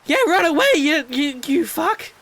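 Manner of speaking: high, loud shout after a scare; startled shouting. Real, not acted. Player chasing off the wolf that scared him, rattled shout. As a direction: yell it high, stumbling on the words. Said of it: "Scared the hell out of me".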